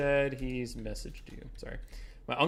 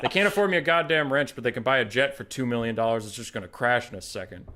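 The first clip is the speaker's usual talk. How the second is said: put-on complaining uncle in a Southern accent; 7 dB louder than usual. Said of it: "You're doing the Southern accent".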